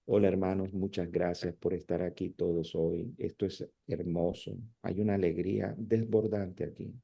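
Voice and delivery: mock a preacher stuck on one dull tone; monotone preacher. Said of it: "su conversación es la misma en todo el sermón".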